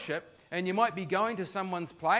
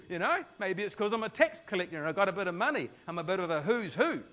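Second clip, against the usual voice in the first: smug self-important; 3 semitones higher than usual. Retold or imitated. Zach's smug inner thoughts voiced.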